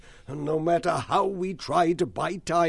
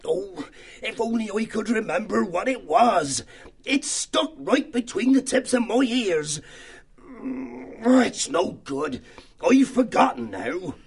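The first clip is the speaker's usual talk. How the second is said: fretful mouse voice; 5 semitones higher than usual. Acted. Church mouse voiced, straining memory.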